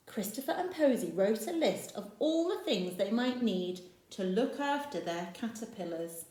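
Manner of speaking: storybook reading voice; story narration. A narrator's reading. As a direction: read it to the little ones. Reads picture book aloud.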